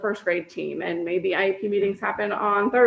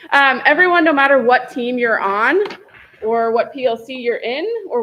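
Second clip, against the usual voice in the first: louder, pitched up to be heard; raised voice; 3 semitones higher, 6 dB louder than usual. Real, not acted. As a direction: push the voice over a bad mic. Did my sound just go out.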